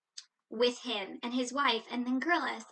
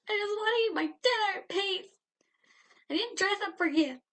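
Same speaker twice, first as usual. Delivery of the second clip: pleading to the waiter; 3 semitones higher than usual. Pretend. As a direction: beg the waiter to get rid of him. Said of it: "I'd be like".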